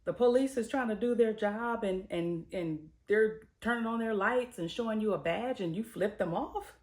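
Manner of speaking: high, loud, outraged disbelief; indignant outrage. Real, not acted. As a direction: call out the entitlement, fired up. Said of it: "And I'm like".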